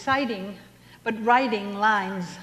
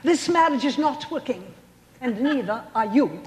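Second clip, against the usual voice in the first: Bette Davis impression; 6 semitones higher than usual. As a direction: spit it out like a grand old film star dumping her husband. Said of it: "Perhaps you recall Betty Davis".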